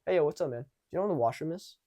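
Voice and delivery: casual, quick and easy; normal and relaxed. Shown as a demonstration. Asking a stranger for the washroom, relaxed. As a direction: toss it off like an easy chat. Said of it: "So normal, so relaxed".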